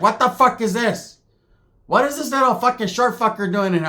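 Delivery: a shocked aunt voice up high; high aunt impression. Aunt spotting the little guy, high and outraged. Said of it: "my tia's like".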